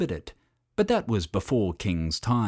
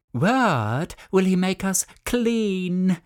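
moaning lemurs; 9 semitones higher, 3 dB louder, slower than usual. A narrator's reading. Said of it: "moaned the lemurs".

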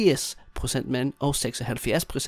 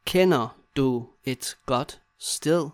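slow, separated words; slower than usual. Shown as a demonstration. Teacher modelling asking a friend for a place, word by word. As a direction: leave a gap after each word.

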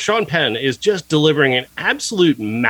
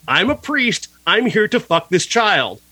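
mock priest; 5 semitones higher than usual. Mock priest voiced again.

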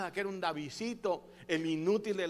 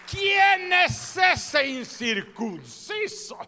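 high, very slow defiant shout; defiant roar; 10 semitones higher, 13 dB louder, much slower than usual. Acted. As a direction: cry it out slowly in triumph. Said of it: "Y dijo David".

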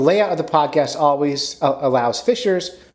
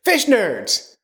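high, hammed-up shout of Fish Nerds; old fan's greeting; 10 semitones higher than usual. Stranger at the farmers market greeting him, mock excited shout. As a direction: mimic an excited old man calling out. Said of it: "old guy comes up to me and goes".

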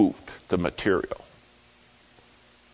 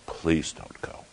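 soft, breathed plea; a quiet desperate ask; pleading whisper; 6 dB quieter, slower than usual. Retold or imitated. Charlie begs his friend to stay, whispered.

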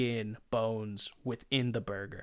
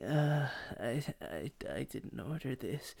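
halting, wavering mock distaste, softening; disgusted picky eater; 2 semitones higher, 5 dB quieter than usual. Friend lifting the bun gingerly, mock squeamish complaint. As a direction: stammer it as if holding something toxic.

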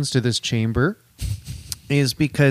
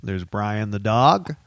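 slow, lower Brian the dog voice; a slow, dopey cartoon dog; 6 semitones lower, slower than usual. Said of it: "ready to do a voice".

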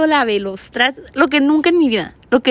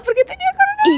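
much higher dramatic punchline; mock dramatic reveal; faster than usual. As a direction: deliver it like a big reveal. (revelación dramática y aguda)

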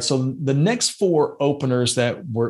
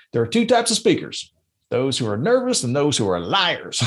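a light Mark Twain voice, starting much higher; Mark Twain impersonation; 4 semitones higher, 3 dB louder than usual. Retold or imitated. Podcast host delivers the Twain quote as a light Twain impression. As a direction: ham up a folksy old humorist lightly. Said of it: "that's my best Mark Twain qu-, uh, impersonation".

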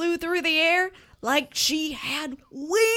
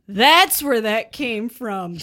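dopey; 3 semitones lower, 5 dB louder, slower than usual. Acted. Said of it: "he said stupidly".

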